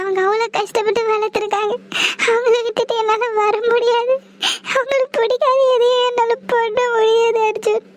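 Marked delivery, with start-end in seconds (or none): 2.3-7.8 pleading through tears; sobbing words out, torn and helpless; crying. Acted. Sathya to Arjun, unable to leave her mother: crying through the words.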